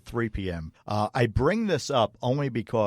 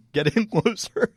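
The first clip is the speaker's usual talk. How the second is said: put-on mean girl quote; 10 semitones higher, 4 dB louder than usual. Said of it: "by calling them".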